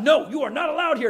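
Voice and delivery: hammed-up shooing of God; mock command. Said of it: "I told God".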